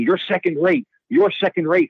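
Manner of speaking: high-pitched mock yell of an angry customer; retold yelling. Customer yelling at the bartender while the bouncer drags him, mock yell. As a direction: imitate him yelling as he's hauled off. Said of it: "the guy starts yelling".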